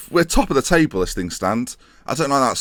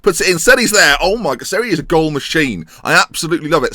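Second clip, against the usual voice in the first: excited; 5 semitones higher, 5 dB louder than usual. Real, not acted. Excited goal commentary.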